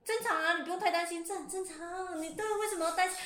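high, breezy doctor voice brushing it off; mock German doctor. Retelling to friends, the German doctor shrugging it off. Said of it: "德国医生就说".

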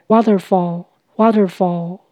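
waterfall with the weight on WA; stress on first syllable. Shown as a demonstration. Teacher showing learners waterfall, stress on WA. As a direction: lean on the WA of waterfall. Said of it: "重音在第一音节".

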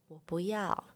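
soft, blank little no; little sister refusing again, very soft; quiet refusal. Retold or imitated. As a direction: barely say it.

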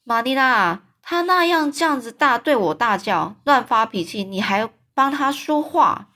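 complain, offended; protesting. Acted. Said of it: "林德夫人又抗议了".

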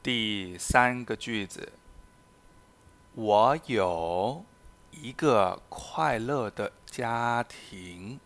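slow, careful reading of each example sentence; slow model reading. Shown as a demonstration. Teacher reading examples to Spanish learners, slow and careful. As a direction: read it out slowly for learners to copy.

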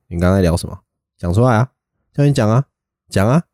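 pressing, rising a little each time; drill sergeant scolding. Shown as a demonstration. Friend mimics army instructor grilling a chatty kid, mild. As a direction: demand an answer, pushing harder. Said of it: "然后你就这样".

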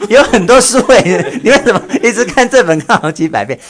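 high, laughing, amazed question; laughing disbelief. Real, not acted.

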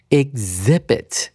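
exhibit said slowly with a g-z sound for x; demonstrated pronunciation. Shown as a demonstration. Teacher shows students how exhibit is read, careful pronunciation. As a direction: say exhibit slowly, silent h, stress on the i. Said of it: "首先是E X的念法".

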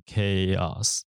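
"chaos" drawn out with a hard K start; pronunciation shown. Shown as a demonstration. Host explains an unexpected reading, "chaos" with a K sound. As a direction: say "chaos" clearly, CH as K. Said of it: "要念成chaos这样子的念法".

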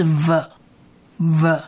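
V said as short ve; sound demo. Shown as a demonstration. Teacher blends V with e for listeners, slow sound demo. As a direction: blend V and e slowly. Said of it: "V加上呃就是".

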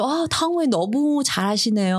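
high, quick starstruck praise; gushing Korean fan. Retold or imitated. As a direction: coo like an adoring fan. Korean viewers gushing over actress.

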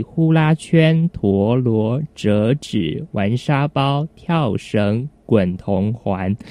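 drawn out, one item at a time; slow, deliberate listing. Real, not acted. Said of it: "你念得好慢哦". (慢慢地一个一个念)

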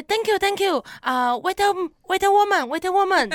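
mock an over-eager clerk's halting, high-pitched English; imitated excited saleswoman. Saleswoman to a foreign customer at checkout, excited broken English. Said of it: "然后她就觉得很兴奋".

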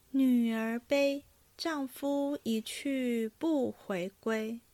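slow, evenly paced poem recital; verse recitation. A narrator's reading. Actor recites his drinking-game verse to the table, slow recitation. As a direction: draw out every line with measure.

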